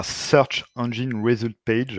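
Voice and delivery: slow, self-mocking English accent on Search Engine Result Page. Shown as a demonstration. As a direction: put on a jokey English accent, slowly. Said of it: "avec mon super accent anglais". (accent anglais appuyé, un peu moqueur)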